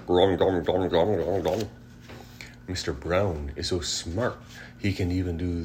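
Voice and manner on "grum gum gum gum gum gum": chewing gum sound. A narrator's reading. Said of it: "hippopotamus chewing gum".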